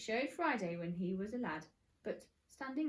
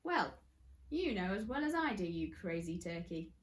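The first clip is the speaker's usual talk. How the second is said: chuckling. Acted. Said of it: "chuckled Mister Gum".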